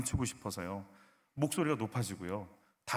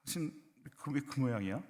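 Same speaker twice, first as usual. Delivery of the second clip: mildly cold, softer question; slightly icy; 7 dB quieter than usual. Shown as a demonstration. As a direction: ask with a slight chill. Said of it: "약간 싸늘하게 하세".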